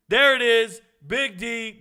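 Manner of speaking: loud, high burst of delight; big, punched exclamation; excited shout-out. Real, not acted. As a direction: call it out like you found your buddy. Hails the fan's message.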